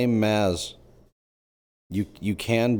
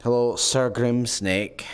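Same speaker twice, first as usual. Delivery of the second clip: relishing the name; 4 semitones higher than usual. Pretend. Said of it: "That was fun to say".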